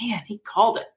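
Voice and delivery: unvoiced whispered aside. Whispering her own reaction while watching the closing. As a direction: breathe it like a secret remark. Inner reaction during the trial.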